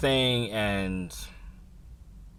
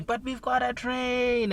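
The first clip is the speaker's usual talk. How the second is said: much higher, slow alarm; urgent inner voice; 3 dB louder, slower than usual. Retold or imitated. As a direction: remind yourself of the train. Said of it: "other voice that's going".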